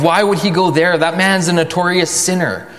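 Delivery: mock judgmental scorn; self-righteous. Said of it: "That kind of attitude of".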